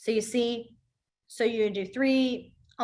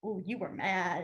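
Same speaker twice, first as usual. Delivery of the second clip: put-on hushed child tattling; 4 semitones lower, 8 dB quieter than usual. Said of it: "was like".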